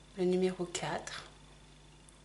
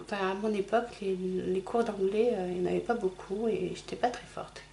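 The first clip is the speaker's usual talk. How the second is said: ordinary talk, nothing marked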